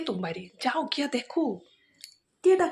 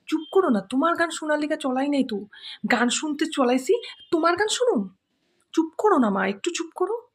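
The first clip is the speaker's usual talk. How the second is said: louder, irritated hush; annoyed scolding; 3 semitones higher, 4 dB louder than usual. Acted. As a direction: snap at mother to stop singing. Daughter scolds singing mother.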